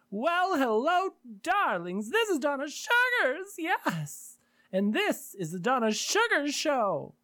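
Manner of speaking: high, slow sultry diva intro; femme fatale. Pretend. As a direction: purr it out like a glamorous hostess. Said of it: "if I don't do it that way, it sounds weird".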